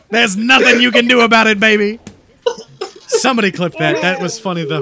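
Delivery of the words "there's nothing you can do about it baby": loud Brooklyn salesman, half laughing; Brooklyn accent. Acted. Boasting about the deck, loud Brooklyn sales accent. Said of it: "slowly turned into a Brooklyn accent".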